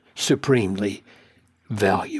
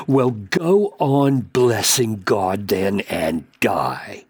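sarcastic; 3 semitones lower, slower than usual. Retold or imitated. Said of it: "she says".

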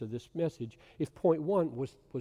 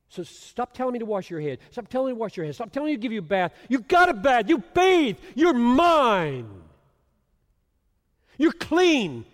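from firm to much higher and louder declaration; building emphatic shout; 9 semitones higher, 10 dB louder than usual. Acted. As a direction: build to a ringing cry. Preacher voicing Jesus, building.

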